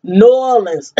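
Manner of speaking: "New Orleans" slurred into NAW-lins, falling; local Southern pronunciation. Shown as a demonstration. Correcting the outsiders' New Orleans for viewers, local Southern pronunciation. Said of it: "That's how you say it".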